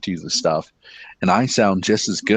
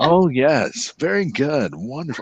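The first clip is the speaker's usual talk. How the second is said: customer service voice; 5 semitones higher than usual. Shown as a demonstration. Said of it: "I'm the king of customer service".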